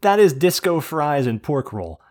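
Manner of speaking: loud, indignant declaration. Real, not acted. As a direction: proclaim it, offended. Indignant Jersey food claim.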